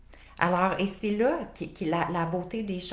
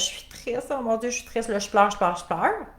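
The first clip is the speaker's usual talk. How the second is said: hammed-up weepy lament, half-whispered at first, climbing higher; mock tearful; 3 semitones higher than usual. Coach acting out feeding her sadness for listeners, mock weepy. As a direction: play a pretend crybaby wallowing in sadness.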